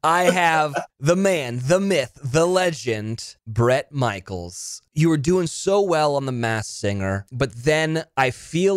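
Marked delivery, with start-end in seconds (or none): 0.0-4.8 announcer intro. Acted. Host introduces guest grandly.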